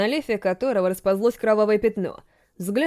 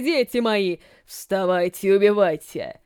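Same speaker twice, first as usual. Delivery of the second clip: slow voice as if from afar; dreamy distant undead voice; 2 semitones lower, slower than usual. Acted. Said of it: "словно издалека, послышался голос".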